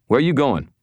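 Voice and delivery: high, loud urgent question; urgent call. Acted. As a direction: call after him, alarmed. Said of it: "Rollins said".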